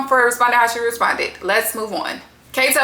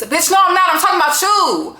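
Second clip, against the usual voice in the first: laughing mock retort; 7 semitones higher than usual.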